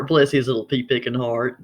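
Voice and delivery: understated mock pity; sweet words meant as a put-down; veiled insult. Gossiping about someone foolish, veiled insult. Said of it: "that is always the second meaning".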